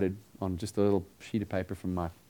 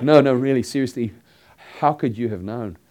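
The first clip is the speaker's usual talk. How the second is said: mock urgent; 3 semitones higher, 10 dB louder than usual. Acting the stranger's urgent question.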